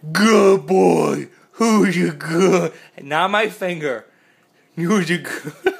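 lavish the dog with happy praise; excited dog praise. Real, not acted. Owner praising his dog for lying down, gushing loud praise.

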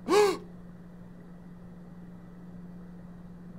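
high, sharp gasp of fright; sudden high intake of breath; startled gasp. Real, not acted. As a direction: gasp as if jump-scared. Startled by game scare.

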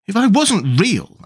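high, drawn-out protest, mildly acted; half laughing, tearful. A narrator's reading. Alice arguing with the twins, half-laughing tearful protest. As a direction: lightly play tears, pitched high and slow. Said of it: "half laughing through her tears".

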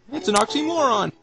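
high-pitched, giggly delivery; laughing. Real, not acted. Player mocking the strange stranger line, laughing high voice. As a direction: talk up high through your laughter.

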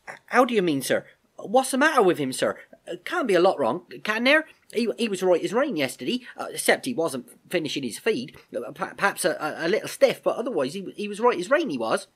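put-on high, stammering young soldier; anxious tremor. Albert insisting to the Major that his horse was fine, high and anxious. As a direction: plead in alarm, tripping over the words. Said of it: "a tremor in his voice".

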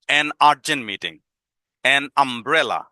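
"an urgent meeting" very slowly, an stressed; slow example. Shown as a demonstration. Teacher repeating the example slowly for students. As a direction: stretch the phrase so they hear an. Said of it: "যেমন".

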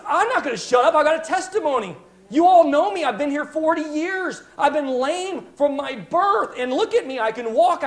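healed man insisting on his testimony, overjoyed; excited testimony. Acted. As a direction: shout your healing to the crowd.

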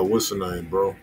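ordinary talk, nothing marked

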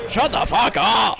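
angry shout. Real, not acted. Angry at the taunting players.

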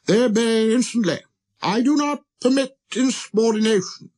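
high, emphatic pompous declaration; authoritarian king. Acted. King boasting the stars obey him, high and imperious. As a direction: insist on obedience with royal severity.

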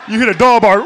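normal talking voice

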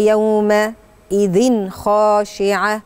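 slow recitation of يومئذ خاشعة with the tanween nun sounded clearly; measured Quran recitation showing izhar in يومئذ; clear izhar, no ghunna. Shown as a demonstration. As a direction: recite يومئذ خاشعة slowly with no nasal hum. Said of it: "مش هعمل هنا غنة".

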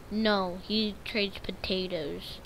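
soft, slow whispered aside; quiet let-down whisper. Real, not acted. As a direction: whisper it in disappointment. Disappointed aside.

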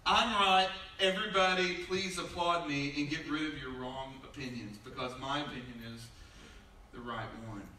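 loud start fading down; mock self-righteous. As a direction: announce your rightness then trail off. Mocking social media poster.

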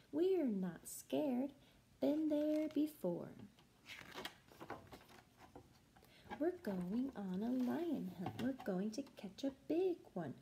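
put-on lively sing-song read to kids; reading to children. A narrator's reading. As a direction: chant it like a class story. Music teacher reads to children.

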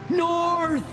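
high, drawn-out scream. A narrator's reading. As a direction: scream a direction over the din. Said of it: "screamed Gallagher".

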